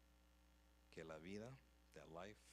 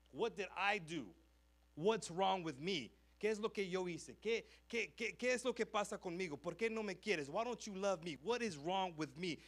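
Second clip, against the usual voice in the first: put-on anguished child's questions; 5 semitones higher, 6 dB louder than usual. Boy's anguished questions to himself.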